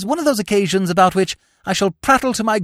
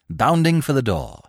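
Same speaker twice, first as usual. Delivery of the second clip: ordinary delivery, nothing marked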